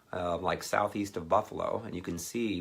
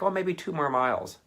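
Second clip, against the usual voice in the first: put-on kid voice; 9 semitones higher, 5 dB louder than usual. Kids voiced casually.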